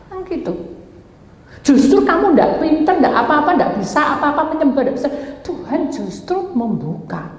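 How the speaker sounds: normal talking voice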